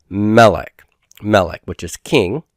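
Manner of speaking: melech with the stress on its first syllable, "me". Shown as a demonstration. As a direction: say "melech" leaning on the opening syllable. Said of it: "the consonant that begins the stressed syllable".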